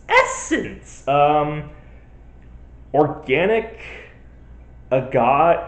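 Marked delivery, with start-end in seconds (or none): 0.1-1.1 fancy exclaim. Acted. Mock-fancy exclaiming ingredient.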